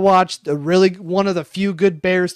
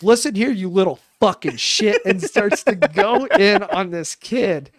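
retold yelling; 3 semitones higher, 4 dB louder than usual. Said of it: "grown man yells at a kid".

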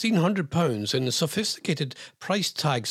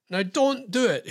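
mock warning; 5 semitones higher than usual. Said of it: "he said, trying to keep himself from being sued".

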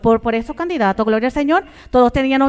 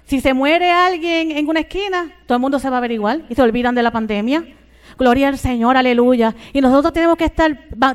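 pushing the sermon louder toward aleluya; louder pulpit burst; rising preaching; 4 dB louder than usual. Acted. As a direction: build the preacher's fervor. Preaching climax about the crowds.

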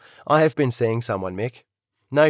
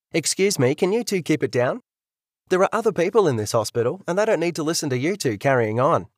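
raised, scolding nurse voice; grumpy old nurse; 4 semitones higher than usual. Acted. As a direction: tell off the noisy pair. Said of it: "a grumpy old nurse pops her head".

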